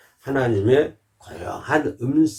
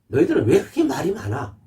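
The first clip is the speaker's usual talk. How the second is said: higher, teasing rebuke with a laugh; laughing God; 7 semitones higher than usual. Retold or imitated. Preacher voicing God teasing his chattering people, laughing. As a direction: scold them while chuckling. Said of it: "이렇게 하나님께서 말씀한".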